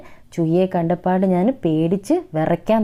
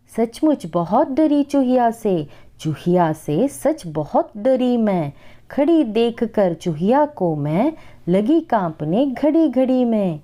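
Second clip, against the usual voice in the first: put-on slow, sing-song recital of a children's poem; poem recitation; 3 semitones higher, slower than usual. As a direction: recite each line slowly for the class. Teacher recites Hindi poem.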